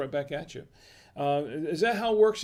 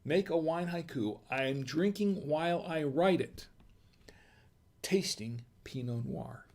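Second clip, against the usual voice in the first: haiku recital. Shown as a demonstration. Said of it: "Oh, excuse me".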